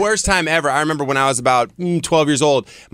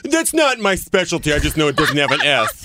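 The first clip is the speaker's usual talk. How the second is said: smug voice; 3 semitones higher than usual. Retold or imitated. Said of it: "Smug voice".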